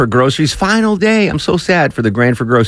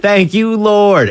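much higher, hammed-up hallelujah; host hamming up the staff's joy, high and bright; mock jubilant praise; 11 semitones higher, much slower than usual. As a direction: shout it up to the heavens in jest. Repeating the staffers' relief.

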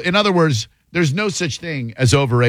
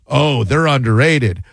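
mock fan claim. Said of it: "we go".

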